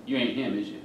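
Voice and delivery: deadpan imitation of a country woman; dry, deadpan question. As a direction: say it with no expression, as the unimpressed little woman. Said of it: "She looks at me deadpan and says".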